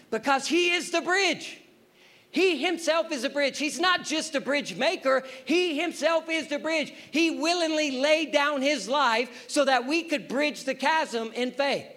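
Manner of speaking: high, insistent pulpit voice; forceful preaching. Acted. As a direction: drive each point home to the congregation.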